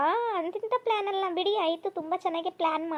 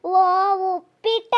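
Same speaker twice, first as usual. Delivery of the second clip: delighted surprise; 8 dB louder, slower than usual. Acted. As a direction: pounce on the word with joy. Mother delighted at the choice.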